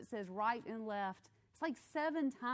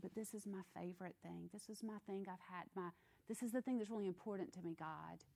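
pleading believer; 7 dB quieter, faster than usual. Pretend.

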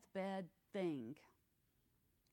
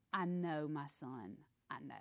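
gentle dying father; 6 semitones lower than usual. Retold or imitated. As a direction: soothe him, letting the words sink. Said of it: "my favorite line".

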